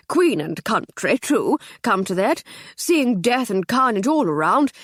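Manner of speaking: put-on rambling old soldier, shaken; captain musing aloud to the inspector; captain's musing.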